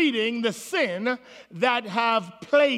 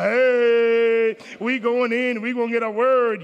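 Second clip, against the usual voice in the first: eager churchgoer; 4 dB louder, slower than usual. Retold or imitated. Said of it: "talking about".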